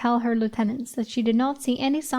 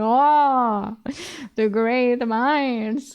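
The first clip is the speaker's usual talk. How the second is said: mock sarcastic drawl, very slow, "Oh" drawn out; 3 dB louder than usual. Quoting how someone says the great minds line, imitating someone's sarcasm. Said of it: "he says it with like like a sarcasm".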